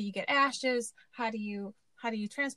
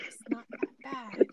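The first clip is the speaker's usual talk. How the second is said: self-soothing whisper. Retold or imitated. Reassuring herself during scary moment.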